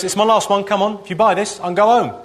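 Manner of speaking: a hint of a weary street vendor's pitch; imitating Big Issue seller. Comic mimics street seller begging passers-by, lightly voiced plea. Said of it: "who always goes".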